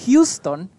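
"Houston" said HYOO-ston, like the Texas city; city pronunciation. Shown as a demonstration. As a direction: say "Houston" with a HYOO first syllable. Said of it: "se escribe como Houston".

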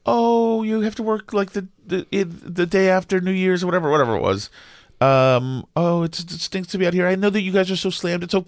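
lightly voiced chatty customer; a hint of sugary small talk; mock-friendly banter with the cashier; imagined chatty small talk. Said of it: "I can imagine she's saying".

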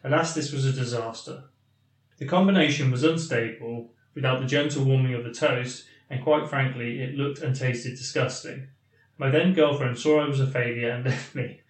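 measured read-aloud of a listener's email; deliberate, articulate email reading; slow, clear reading. Real, not acted. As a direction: read the letter out carefully and clearly. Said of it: "I'll read it slowly, yeah, and hopefully clearly".

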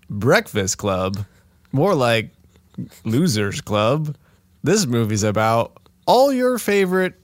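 rom-com trailer voice. Acted. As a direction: announce it like a cheesy trailer. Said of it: "say it like a, like a stupid, um, rom-com trailer voice".

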